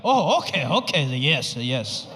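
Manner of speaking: falling, fading okays; fake understanding. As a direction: nod along without getting it. Dad pretending to understand.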